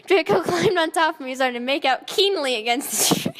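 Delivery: reading while cracking up; can barely keep it together; laughing through it. Real, not acted. Reader cracking up at text.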